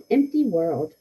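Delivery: measured haiku recital with pauses between lines; poem reading. Acted. Teacher reads a haiku to the class, measured poem reading.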